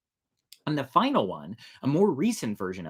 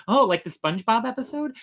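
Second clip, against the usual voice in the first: imitating partner; 11 semitones higher, 5 dB louder than usual. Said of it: "first thing out of his mouth".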